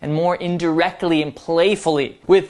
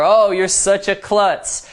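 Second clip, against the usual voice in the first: playful tease; 2 semitones higher, slower than usual. Shown as a demonstration. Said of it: "It's a playful tonality".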